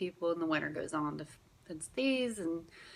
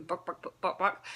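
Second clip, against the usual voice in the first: chicken clucking. Retold or imitated. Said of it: "you're going".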